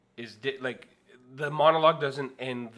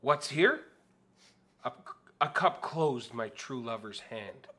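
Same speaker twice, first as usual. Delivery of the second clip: hammy stage Juliet, slow and drawn out; Shakespearean Juliet. Pretend. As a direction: overdo it like a stage actor. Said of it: "do your best Shakespearean actor being Juliet".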